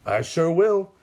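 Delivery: villain delighted to show his animals, eager. A narrator's reading. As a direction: jump at it eagerly. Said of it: "Sam says eagerly".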